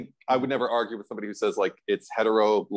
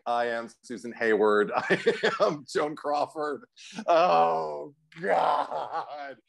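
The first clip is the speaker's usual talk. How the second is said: hammed-up old Hollywood diva breakdown; mock melodrama; 3 semitones higher, much slower than usual. Lisa breaking down, in mock Hollywood melodrama. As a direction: overplay it like a film star's meltdown. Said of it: "just full mental breakdown, melodrama".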